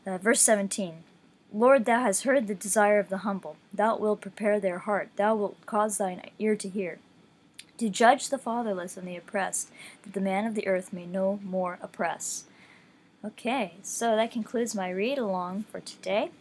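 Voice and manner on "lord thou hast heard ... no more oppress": scripture reading. Acted. Reading Psalm ten aloud to listeners, measured scripture voice. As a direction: read the psalm with steady reverence.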